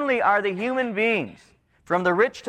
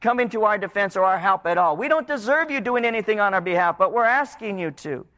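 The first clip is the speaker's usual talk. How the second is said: higher, pleading confession; confessing apostates; 4 semitones higher than usual. Retold or imitated. People confessing apostasy to God, pleading. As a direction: own the guilt and beg. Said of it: "And they're saying".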